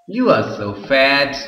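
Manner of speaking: slow, drawn-out mock remark; teasing, with a leap on the first word; ironic teasing. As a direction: stretch it out as playful irony. Acted ironic remark to thin boy.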